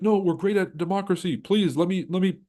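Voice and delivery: high, smug mock voice; mock America. Mocking America offering to fix other countries, smug high voice. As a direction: play America as a pushy fixer. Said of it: "America will pull up and be like".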